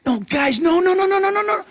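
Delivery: high, calling no no no; reassuring Jesus. Retold or imitated. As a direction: wave their fear away, calling out. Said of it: "He's not, he's not going".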